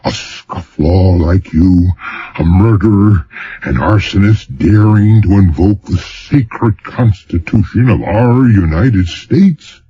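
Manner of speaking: mock-outraged governor, pitched high; hammed-up indignation; a touch of theatrical fury; indignant tirade.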